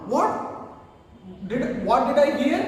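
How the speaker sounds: mildly acted astonished questioning; rising, incredulous question with a small stumble; disbelief. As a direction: ask as if you can't believe your ears. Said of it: "He's not believing his ears".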